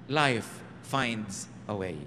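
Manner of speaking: very slow, low, drawn-out movie line; dramatic movie quote. Retold or imitated. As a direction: deliver it like a film trailer. (mabagal at madramang sipi mula sa pelikula)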